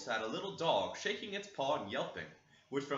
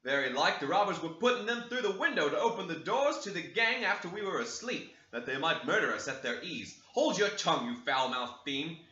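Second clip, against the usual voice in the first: loud, higher servant's voice; servant reporting; 5 semitones higher, 5 dB louder than usual. Acted. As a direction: report it eagerly to the master. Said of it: "he added".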